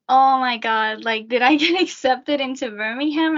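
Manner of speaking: excited retelling, laughing a little; retold excitement. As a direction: relive the thrilled surprise with a laugh. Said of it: "I was really excited and happy".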